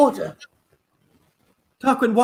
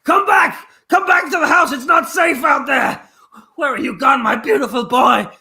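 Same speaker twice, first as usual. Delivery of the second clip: calling out. Acted. Mother shouting for lost son.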